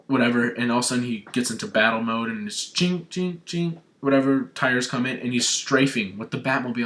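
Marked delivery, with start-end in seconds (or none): 2.7-3.8 high-pitched metallic "chink" noises; quick mouth-made clinking; imitated mechanical clinks. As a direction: sound out parts snapping into place, higher. Imitates Batmobile mode change noise.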